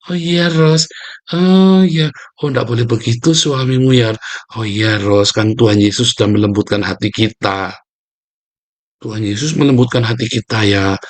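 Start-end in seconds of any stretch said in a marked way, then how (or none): 0.1-7.7 gentle-voiced man. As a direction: soothe Ros like a tender churchman. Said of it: "Tiba-tiba ada orang lemah lembut".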